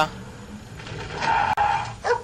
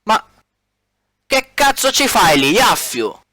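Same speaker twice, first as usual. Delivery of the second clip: shocked outburst; 5 semitones higher, slower than usual. Acted. Shocked at finding Yaffio there.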